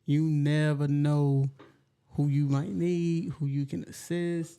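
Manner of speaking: talking around a grill in the mouth; slurred through a teeth grill; wearing teeth grill. Real, not acted. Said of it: "she really cannot talk with them grills in her mouth".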